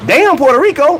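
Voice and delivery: amused laughing. Real, not acted. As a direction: laugh through "damn Puerto Rico". Retelling own joke, laughing.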